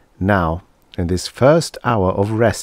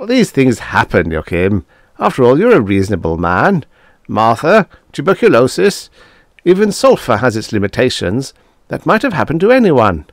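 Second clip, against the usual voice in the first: higher and louder, stammering; flustered Tanzler; 6 semitones higher, 5 dB louder than usual. Acted. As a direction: scramble for an excuse.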